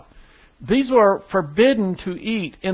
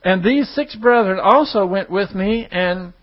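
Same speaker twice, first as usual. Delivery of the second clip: raised, emphatic Bible reading; scripture reading; 2 semitones higher than usual. Acted. Preacher reads Peter's vision to the congregation, scripture reading. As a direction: read the verse out firmly to the room.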